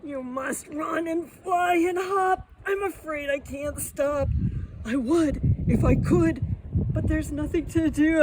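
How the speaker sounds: elephant voice, pleading. Acted. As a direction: beg like an itchy elephant.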